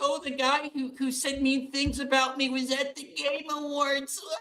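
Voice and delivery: play-acted, very high, whining, sulky voice. Mocking a woman in conversation, imitating her whining. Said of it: "she was like whining".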